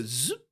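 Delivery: zip said as a rising buzz; zipper-like "zzzip"; imitated zipper sound. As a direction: turn the word into a zipper noise. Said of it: "like, the sound".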